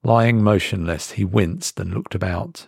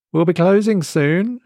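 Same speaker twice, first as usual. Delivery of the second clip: higher, rising dismissive waitress; 9 semitones higher than usual. Acted. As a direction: shoo him out politely.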